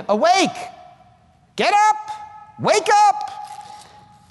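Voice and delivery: very high, urgent shouts; God's wake-up call. Acted. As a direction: shout to rouse a heavy sleeper. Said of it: "that's why you hear him over here saying".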